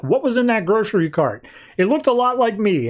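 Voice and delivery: lightly voiced airhead; dim-witted voice. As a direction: play her as clueless and spacey. Plastique voiced again.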